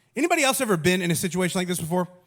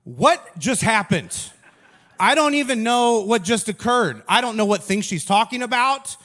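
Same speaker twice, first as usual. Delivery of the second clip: bewildered; 4 semitones higher, 5 dB louder than usual. Retold or imitated. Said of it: "And I would just be like".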